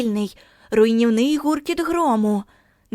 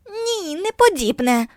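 slow, higher mock shout of a crowd of kids; children shouting; 8 semitones higher, 3 dB louder, slower than usual. A narrator's reading. Children shouting Margo down, slow and high. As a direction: cry out the denial together, stretched. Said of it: "кричали діти".

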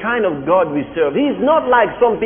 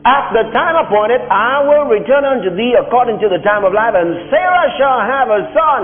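raised, solemn voice of God; voice of the Lord; 7 semitones higher, 3 dB louder than usual. Acted. The Lord promising Abraham a son, raised and solemn. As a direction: proclaim it as the Lord.

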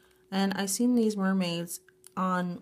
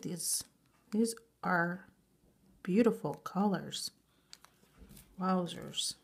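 awed whisper; 4 dB quieter than usual. Real, not acted. Awed whisper over gift.

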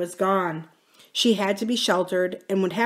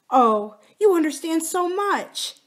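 high, slow, heartfelt; mildly overcome gratitude; 10 semitones higher, 4 dB louder than usual. Acted. Wife near tears thanking her husband, mildly gushing.

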